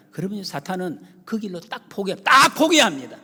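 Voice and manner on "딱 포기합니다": high, loud declaration; emphatic shout. Real, not acted. Preacher declaring Satan gives up, loud high shout. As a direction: hammer it out loud.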